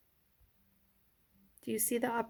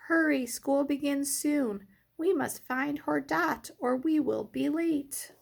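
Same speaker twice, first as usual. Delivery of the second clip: urgent urging; 6 semitones higher than usual. Acted. Teacher urges letters to hurry.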